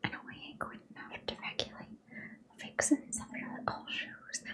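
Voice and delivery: whispered Goofy attempt slipping into British; botched Goofy accent, British-sounding. Shown as a demonstration. Reader voicing a suitor as Goofy, whispered botched British accent. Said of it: "Wait, no, that was British".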